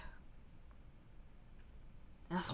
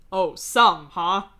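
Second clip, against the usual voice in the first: louder, laugh bubbling under; holding back a laugh; 11 dB louder, much slower than usual. A narrator's reading. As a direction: fight back a grin as you ask. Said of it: "restraining a laugh".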